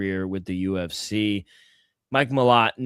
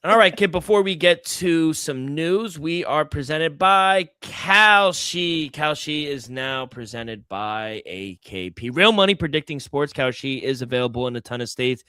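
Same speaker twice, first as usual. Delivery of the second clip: ad read. Acted. Reads sponsor ad.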